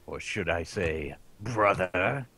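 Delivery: Liquid impression. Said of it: "Cam Clark as the voice of Liquid".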